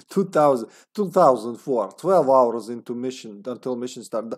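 Serbian accent, lightly done. Shown as a demonstration. Gamer trying out the journal line, Serbian accent. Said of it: "go with Serbian accent".

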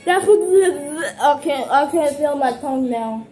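pained by spice. Real, not acted. Burning from hot sauce.

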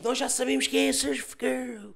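slow, lightly voiced gossiping friends; mock friends. The friends tell Gabi the secret, slow and smug. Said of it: "vão ter com a Gabi e dizem".

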